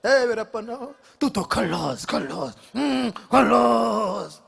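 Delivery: stretched, breathy hero stammer; light mock superstar voice; Shah Rukh Khan impression. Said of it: "Shahrukh Khan".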